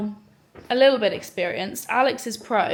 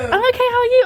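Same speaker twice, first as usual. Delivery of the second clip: excited greeting; 13 semitones higher, 9 dB louder, faster than usual. Real, not acted. Greeting a friend with delight.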